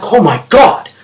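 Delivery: high-pitched acted alarm; starting to panic. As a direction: play the kid's rising panic. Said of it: "he's starting to panic".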